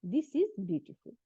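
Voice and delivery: This is beautiful drawn out very slowly; slow model reading. Shown as a demonstration. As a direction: read it slowly for the class. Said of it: "sentence পড়তে পড়তে".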